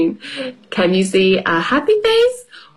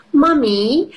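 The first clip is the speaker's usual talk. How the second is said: put-on little girl voice; 6 semitones higher than usual. Peppa voiced in story.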